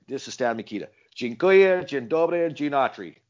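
a hint of his old-country hello, lifting the Polish words; Stan Mikita greeting. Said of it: "that's how he said it".

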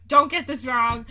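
ordinary talk

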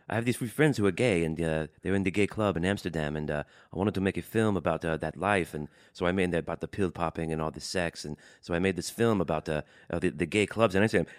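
loosely imitated Dutch-accented English; hesitant, amateur Dutch accent with filler sounds; attempted Dutch accent. Podcaster retelling the Dutch director's answer, attempted Dutch accent. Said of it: "please try to do the Dutch accent".

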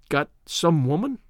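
slow, blank echo; blank repeat. A narrator's reading. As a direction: repeat it stunned, slowly. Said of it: "I repeated blankly".

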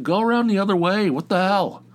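high, loud, fast angry shout; angry yell. Retold or imitated. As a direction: bark at the drivers to go around. Yelling at cars cutting through line.

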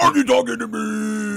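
tough guy challenge; De Niro voice. Acted. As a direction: Taxi Driver menace. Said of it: "it was like".

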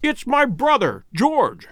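high-pitched cry of recognition; excited cry. A narrator's reading. Sir Henry finds his brother alive, excited cry. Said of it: "he cried".

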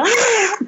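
high mock scream of alarm; retold scream. Mom scream at the dog, retold as a high mock yelp. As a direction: let out a short high yelp. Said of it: "como que está gritando".

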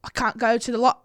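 put-on tentative Irish accent; lightly put-on Irish accent. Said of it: "an Irish accent".

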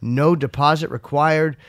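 measured sponsor read. Real, not acted. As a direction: sell it playfully, punching key phrases. Reads sponsor copy.

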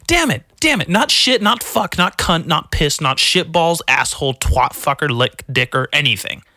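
high-pitched exasperated rant, easing down; indignant protest. Real, not acted. Defending himself for saying damn it, indignant protest. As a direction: start shrieky high and rattle off the list.

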